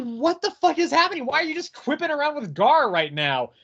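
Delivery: high-pitched incredulous demand; retold bafflement. Reader objecting to Raven's quipping, incredulous. Acted baffled reaction to out-of-character quips.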